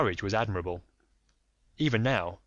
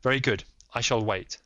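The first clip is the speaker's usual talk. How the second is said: lightly voiced firm detective; polite but firm, a touch raised; Holmes; 2 semitones higher, 4 dB louder than usual. Holmes pressing the lady, lightly voiced firm.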